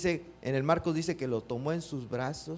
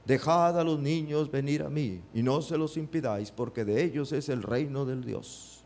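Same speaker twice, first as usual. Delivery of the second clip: movie Jesus. Retold or imitated. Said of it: "así sale el actor".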